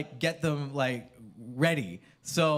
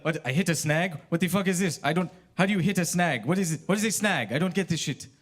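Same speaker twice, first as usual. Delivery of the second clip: mock rant; 3 semitones higher, 4 dB louder than usual. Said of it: "he just lost his shit".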